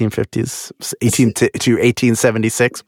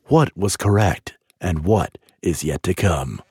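low, slow TV narrator voice; deep dramatic trailer read; documentary announcer; 6 semitones lower than usual. Pretend. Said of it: "Oh, that's really good".

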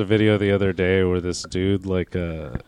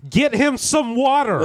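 laughing mock call; 12 semitones higher, slower than usual. Retold bystanders finally helping.

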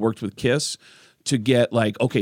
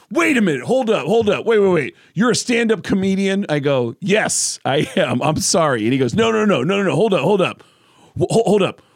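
excited Corey; 4 semitones higher than usual. Retold or imitated.

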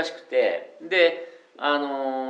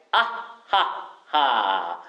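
staccato laugh; 4 semitones lower than usual. Shown as a demonstration. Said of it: "スタッカート気味で".

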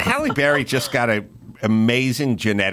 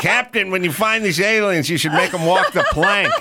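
pirate voice; 9 semitones higher than usual. Pretend. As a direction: play a laughing pirate crewman. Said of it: "I read it like a pirate".

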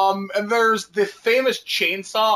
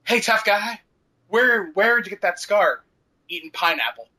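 imitating cops. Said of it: "The television version".

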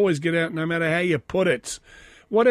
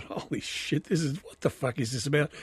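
whispered thought; 7 dB quieter than usual. Retold or imitated. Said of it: "I thought".

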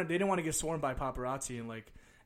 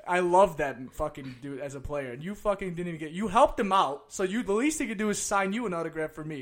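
loud, raised mock pleading; near-tears outrage; 4 semitones higher, 6 dB louder than usual. Kid confronting dad who helped the player, mock-tearful outrage. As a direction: protest like a wronged kid, imitated. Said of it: "I'm, like, damn near teared".

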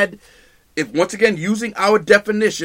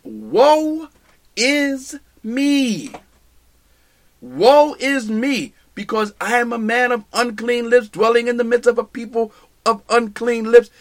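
mild lament of undone prophet; Isaiah's lament; 4 semitones higher than usual. Retold or imitated. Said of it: "he makes this statement".

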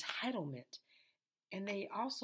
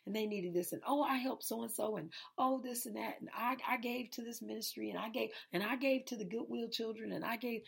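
bragging voice; 4 semitones higher than usual. Retold or imitated. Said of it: "talking about".

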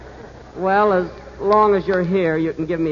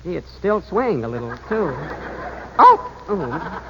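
dizzy mumble. Acted. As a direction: mumble it, sinking into dizziness. Dizzy and afraid on the bridge.

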